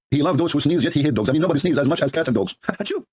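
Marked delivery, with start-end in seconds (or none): 2.6-3.0 laughing. Acted. Laughing mock agreement.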